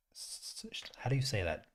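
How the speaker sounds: half to yourself, a breathy whisper; whispered to self. Real, not acted. Stuck on a word, whispering to yourself. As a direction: whisper it, unvoiced, puzzling over a word. Struggling to say shush.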